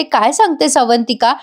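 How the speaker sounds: mildly acted happy surprise, lifted pitch; delighted. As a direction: voice her delighted disbelief, lightly. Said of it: "हे ऐकून जानकी इतकी खुश होते". (आनंदित स्वरात, हलका अभिनय)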